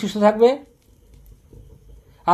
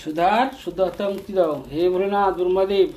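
chanted prayer in a raised, steady voice; loud invocation. Real, not acted. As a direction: call on the gods aloud. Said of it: "জোরে জোরে?". (উঁচু গলায় মন্ত্রের মতো প্রার্থনা)

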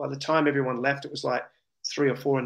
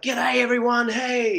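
awkward cheery greeting; 8 semitones higher than usual. Retold or imitated. Walking into room of strangers.

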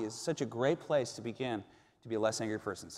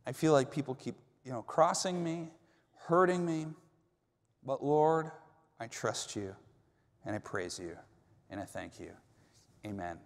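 prayer of surrender. Pretend. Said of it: "Where you say".

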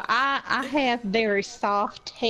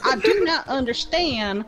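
lightly acted haughty bafflement; in-character offended customer, measured delivery; indignant customer; 4 semitones higher than usual. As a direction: enunciate each word in mild mock indignation.

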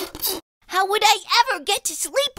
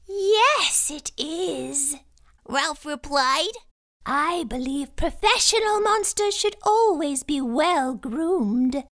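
high silky monster. Acted. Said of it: "high, silky voice".

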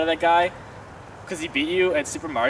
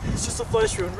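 high brave front; 14 semitones higher than usual. Acted. Wounded boy brushes it off.

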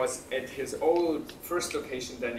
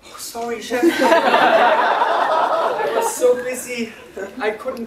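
humble; 9 semitones higher, 12 dB louder, much slower than usual. Retold or imitated. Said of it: "much more humble".

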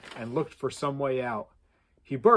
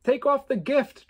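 loud, higher furious demand; angry shout, much higher and louder; 11 semitones higher, 8 dB louder than usual. Acted. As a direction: order him to take it off now. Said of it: "Trevor demanded".

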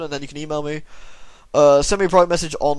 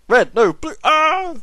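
mock panicked answer; 12 semitones higher, 5 dB louder, much slower than usual. Acting out the Monty Python bridge scene.

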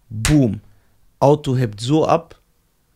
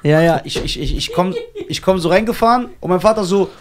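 ordinary talk

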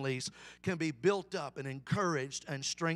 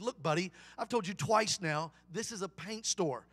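mildly frustrated shopkeeper; 2 semitones higher, 4 dB louder than usual. Acted. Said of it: "got a little frustrated".

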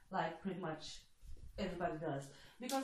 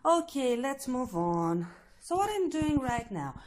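louder, brisk topic change; loud reset; 3 semitones higher, 11 dB louder than usual. Real, not acted. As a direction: snap back and push on loudly. Abrupt loud topic switch.

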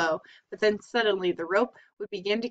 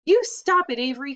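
much higher, louder desperate yell; alarmed cry; 5 semitones higher, 5 dB louder than usual. A narrator's reading. Fern crying out to save Charlotte, high and loud. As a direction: yell to stop him cold. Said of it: "cried Fern".

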